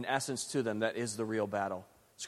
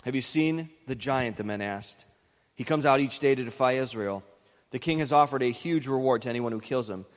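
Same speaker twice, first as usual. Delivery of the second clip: dramatic Bible reading with voiced quotes; Scripture reading. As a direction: read the passage aloud like a story for the congregation. Pastor reads Scripture passage aloud.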